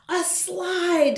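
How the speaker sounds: put-on high, eager little girl asking; bright child voice. Child character.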